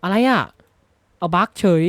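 sudden high yelp of disbelief; startled shout. Real, not acted. Gamer yelling in shock at a sudden bug. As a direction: cry out as the game glitches.

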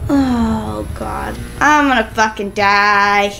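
slow, drawn-out resignation; slow wail of a doomed gamer; despairing groan. Real, not acted. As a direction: drag out every word in defeat. Sure of losing the fight.

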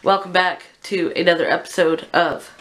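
hoarse sick voice, real cold; rough croaky voice from being sick; swamp creature. Real, not acted. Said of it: "I sound like a swamp monster because I'm very sick".

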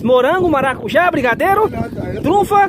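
put-on high lilting street seller offering a girl a truffle; vendor's cry. Shown as a demonstration. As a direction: advertise the treats to passers-by, calling high. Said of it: "é assim, ó".

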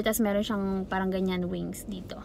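whispered aside about the dress wings. Real, not acted. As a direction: hush it down to a whisper.

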